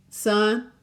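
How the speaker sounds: put-on a friendly cowgirl greeting the boy, slow. Cowgirl calls to Walter.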